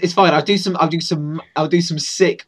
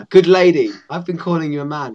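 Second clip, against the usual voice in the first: guard voice; 5 dB louder, faster than usual. Acted.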